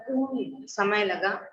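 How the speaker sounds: उ stretched out and slow; long drawn vowel. Shown as a demonstration. Teacher showing students a long vowel, drawn out. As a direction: hold the उ to show it takes time. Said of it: "ए में हमें इतना समय नहीं लगा जितना में आ में लगा".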